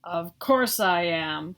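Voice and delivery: put-on slow, low snap from the girl monster; snapped. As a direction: bite off the words like an offended little monster. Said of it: "she snapped".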